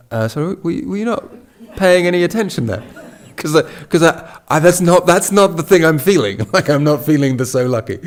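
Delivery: high, rising, baffled protest; incredulous disbelief. Retold or imitated. Friend baffled by Geshe's reply.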